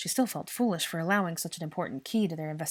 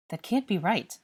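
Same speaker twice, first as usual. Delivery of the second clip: firm, louder insistence; insistent denial; insisting; 4 semitones higher, 5 dB louder than usual. Acted. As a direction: press the point, flatly refusing it. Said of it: "Draco insisted".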